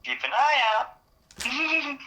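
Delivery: very high and drawn-out slow mockery; mocking echo. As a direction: parrot the phrase back, stretched and sing-song. Mocking repeat of the phrase.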